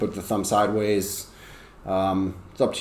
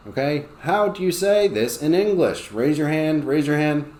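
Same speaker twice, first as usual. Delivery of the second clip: put-on slightly higher, lively teacher prompting kids; addressing a class; 5 semitones higher than usual. Shown as a demonstration. Teacher asks the class for a word, lively and higher. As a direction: call for hands from the class.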